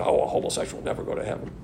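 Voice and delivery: fast, whispered mock of a preacher; mocking other preachers. Preacher mimicking other preachers in a whispered, mocking rush. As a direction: toss it off as a snide imitation.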